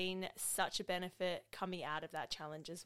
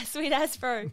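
louder, higher kiwi drawl, laughing; broad kiwi accent; 6 semitones higher, 8 dB louder, slower than usual. Retold or imitated. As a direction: ham up a New Zealand bro accent. Echoes Kiwi slang laughing.

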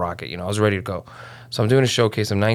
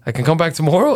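excited disbelief; 7 semitones higher, 3 dB louder than usual. Retold or imitated. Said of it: "I went".

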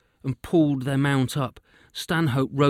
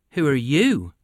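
louder, falling, tossing it straight back; defiant retort; 2 semitones higher, 6 dB louder than usual. Acted. Witch turning the hunter's question back on him, defiant.

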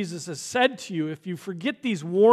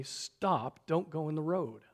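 calm quoted warning; 3 semitones lower, 6 dB quieter than usual. Shown as a demonstration. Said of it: "you have to say".

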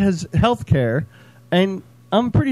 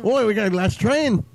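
a mock American accent as Liam, a touch higher; the improved take at Liam's American voice; better American Liam impression; 4 semitones higher than usual. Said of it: "Okay, that's better".

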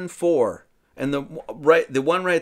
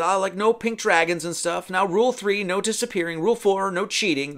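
Mad Madam Mim; 5 semitones higher than usual. Retold or imitated. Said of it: "she says".

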